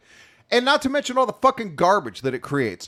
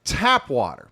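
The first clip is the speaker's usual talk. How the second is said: mock rant; 2 semitones higher than usual. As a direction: rant it with fake outrage. Rant about tap water.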